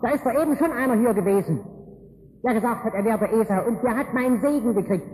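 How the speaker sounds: the father blowing up at the deceit; mock roar. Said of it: "da brüllt der Vater los". (gespieltes empörtes Brüllen)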